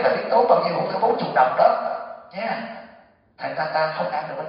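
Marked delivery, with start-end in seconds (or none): 0.0-2.6 kêu lên tốn kém. Retold or imitated. Trưởng lão kêu tốn kém.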